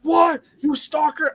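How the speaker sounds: high-pitched incredulous student; mock shocked retort. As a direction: burst out in mock disbelief.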